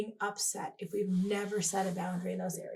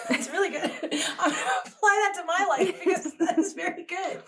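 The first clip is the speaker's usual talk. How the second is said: laughing; 9 semitones higher, 7 dB louder than usual. Real, not acted. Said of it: "laughing reaction".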